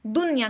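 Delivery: दुनिया as dun-ya, no bounce on न; दुनिया with a still, closed न; held noon. Shown as a demonstration. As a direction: stop the voice on the न of दुनिया, then say या. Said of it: "रोकना है".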